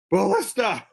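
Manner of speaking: loud, high shouted warning; screamed warning. Acted. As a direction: yell it out to the group. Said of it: "so I scream at the group".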